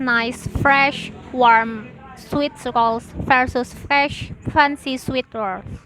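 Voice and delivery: nice, fresh, warm each clipped apart; teacher demonstrating staccato timing; staccato rhythm. Shown as a demonstration. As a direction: tap out each word separately. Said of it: "staccato rhythm".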